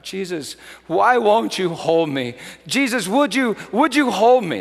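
imitating a friend's desperate plea; retold crying out. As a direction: beg Jesus, voice rising with each ask. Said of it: "she just cried out".

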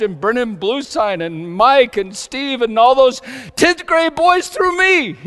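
loud, high, building to a shout; impassioned preaching. Real, not acted. Preacher telling how Jesus loved boys through him, impassioned. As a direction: preach it at full force, climbing to the end.

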